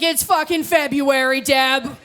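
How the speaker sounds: mock fed-up retort, drawn out at the end; hammed-up irritated comeback; acted exasperation. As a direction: snap back at a complainer, ending slow.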